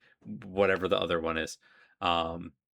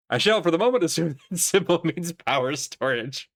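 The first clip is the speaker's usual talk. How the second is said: mock formal declaration; 7 semitones higher, 3 dB louder than usual.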